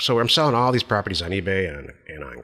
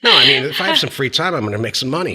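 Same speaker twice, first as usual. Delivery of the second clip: laughing protest; 7 semitones higher, 7 dB louder than usual. Real, not acted. Laughing defence after tease.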